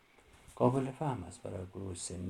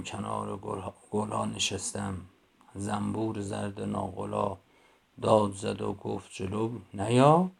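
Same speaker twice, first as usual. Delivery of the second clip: slow, rhythmic nursery-rhyme reading; slow sing-song verse for little kids; children's poem recitation; 3 dB louder than usual. Shown as a demonstration. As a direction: recite it slowly with a playful lilt. Recites bee poem to class.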